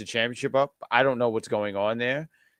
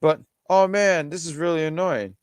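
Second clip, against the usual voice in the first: hiccup breaking the words; 6 semitones higher, 5 dB louder than usual. Real, not acted. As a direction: voice jumping from hiccups. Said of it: "Sorry, these hiccups".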